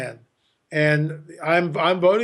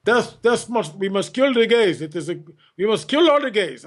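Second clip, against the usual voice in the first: crazy imam; 3 semitones higher than usual. Retold or imitated. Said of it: "like this crazy imam".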